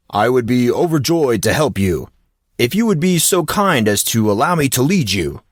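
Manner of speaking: lightly voiced grandiose coach, overly polite; a hint of a theatrical, courtly gym coach; formal coach. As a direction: play the pompous gentleman coach.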